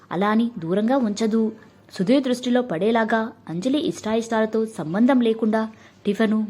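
ordinary delivery

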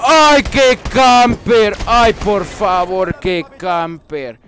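slow loud drawn-out taunt; mocking camper call. Real, not acted. Gamer taunting the camper after winning, slow drawn-out mock. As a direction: stretch each word to mock.

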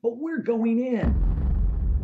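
slow, loud and high, every word drawn out; defiant declaration. Real, not acted. Speaker rallying listeners past obstacles, slow loud defiance.

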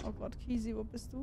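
hushed frightened calling; scared whisper. Real, not acted. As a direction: whisper for your friend in fear. Hiding from monster, scared.

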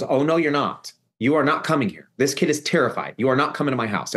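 imitating a protective aunt laying down the law; retold firm refusal. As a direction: put your foot down, as a retold quote. Teresa retold standing up to Annie.

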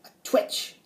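lightly voiced witch, voiceless punchline; weird witch. A narrator's reading. Witch answering the riddle, weird voice. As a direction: deliver the punchline as an odd witch. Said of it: "the weird witch answered".

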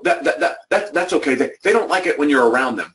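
high, tripping, flustered stammer; a mock-flustered negative colleague making excuses. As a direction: stumble over the words like someone caught out. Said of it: "She'll go".

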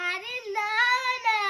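put-on tearful child's protest; acted crying. Child corrects mother's guess, pretend crying. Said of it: "তাহলে কাঁদছিস কেন?".

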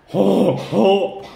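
two puffed mock hippo snorts. Shown as a demonstration. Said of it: "makes a sound like this".

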